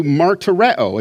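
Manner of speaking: martyreo drawn out slowly, falling at the end; Greek word again. Shown as a demonstration. Teacher repeating the Greek word for the class, slow and deliberate. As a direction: lay out martyreo slowly for listeners. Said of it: "in this Greek word".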